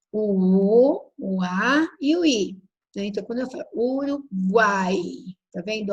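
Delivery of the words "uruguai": Uruguai with the A of the last syllable stressed; strong A. Shown as a demonstration. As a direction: lean on the final guai in Uruguai. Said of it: "Ó, o A é forte". (Uruguai com o A forte no final)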